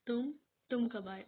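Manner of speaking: startled stammer; loud startled question; surprised. Acted. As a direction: caught off guard. She finds him there unexpectedly.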